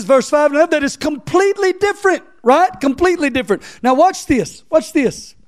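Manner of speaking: high, loud preacher's cry; preacher building to a peak; full-force preaching. Acted. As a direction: drive it home to the congregation.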